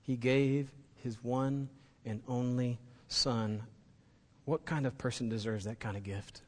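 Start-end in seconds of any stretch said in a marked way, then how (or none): 0.0-3.6 He gave his one and only Son, slow and softer, gave drawn out; quiet repetition. Shown as a demonstration. Pastor repeating the verse a last time, hushed and slow. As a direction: drop the volume and let gave linger. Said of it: "Let me say that one more time".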